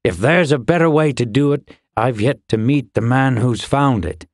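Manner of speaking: gruff-tempered man defending his method, emphatic start; grumbling fire keeper. Acted. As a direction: argue stubbornly in his character voice. Voices the fire-building man of the story.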